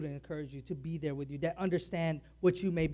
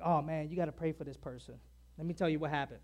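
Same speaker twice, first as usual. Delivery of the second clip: lightly acted gossip, dropped softer; mock gossip; 3 semitones lower, 6 dB quieter, faster than usual. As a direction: pretend to confide gossip as a prayer request, softly. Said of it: "used prayer as a means to gossip".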